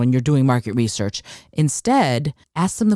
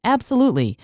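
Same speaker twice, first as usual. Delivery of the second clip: emphatic agreement; 10 semitones higher, faster than usual. Real, not acted. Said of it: "repeated emphatic agreement".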